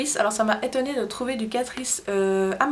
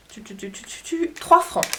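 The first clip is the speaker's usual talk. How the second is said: mock drumroll before the bargain price; drumroll reveal. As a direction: build suspense, then pop the price.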